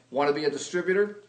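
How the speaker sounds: rushed, blurted sales question; blurted pitch. Retold or imitated. Blurting the sales question to his sister, fast. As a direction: fire it off fast and blunt.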